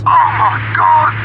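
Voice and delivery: slow, drawn-out cry of horror; appalled. Acted. Bill reacts in slow horror to the accident. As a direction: let the horror spill out slowly.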